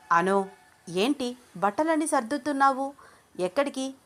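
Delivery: put-on concerned girl questioning her friend; worried friend. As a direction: ask your packing friend what's wrong. Junnu worried about Anu.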